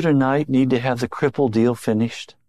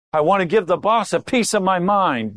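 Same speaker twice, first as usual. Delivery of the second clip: mildly indignant, voice pitched up; mock indignation, raised pitch; indignant employee; 5 semitones higher than usual. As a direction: play the worker with a grievance. Acting out a disgruntled employee.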